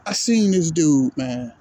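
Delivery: low, heavy-hearted remembering; getting emotional. Real, not acted. Fan remembers Kobe Bryant playing hurt, getting emotional. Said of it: "I'm getting emotional now".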